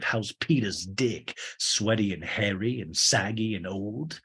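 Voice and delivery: hammed-up DJ rant slowing into mock reverie. DJ griping about his ex, then mock mesmerised.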